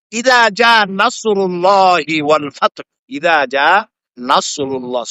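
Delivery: ইদা জা নাসরুল্লাহি drawn out slowly; Quranic recitation. Shown as a demonstration. Preacher reciting the verse to teach the letter সদ, slow chant. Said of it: "সদের উচ্চারণ আলাদা".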